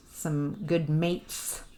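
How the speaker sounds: slow, slightly Australian-accented delivery. Real, not acted. Tarot reader channeling a guide, Australian accent. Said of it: "an Australian accent just came in".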